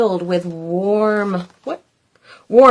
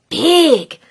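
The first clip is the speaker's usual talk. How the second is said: 1 squeal; 5 semitones higher than usual. Acted. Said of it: "Little Gloom squealed".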